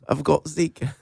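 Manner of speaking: soft, high-pitched little character voice; small-head high voice. Pretend. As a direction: squeak it quietly, as if from a tiny head. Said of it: "small head makes his voice high".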